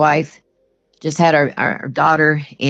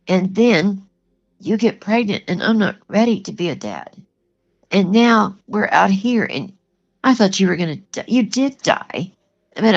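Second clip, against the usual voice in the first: distraught retelling; 4 semitones higher than usual. Retold or imitated. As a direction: imitate a husband breaking down. Retelling husband's tearful breakdown.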